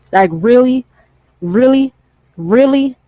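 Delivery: repeated really? pitched high; disbelief. Real, not acted. Reacting to jokes about deaths, high incredulous really.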